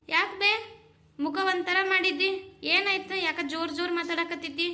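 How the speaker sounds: concerned mother asking what's wrong; worried call. Acted. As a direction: sound alarmed at her face. Mother worried, calls to daughter.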